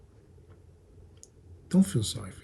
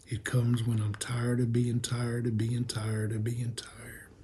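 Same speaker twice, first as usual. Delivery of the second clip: weary whisper; 2 semitones lower, 7 dB quieter than usual. Acted.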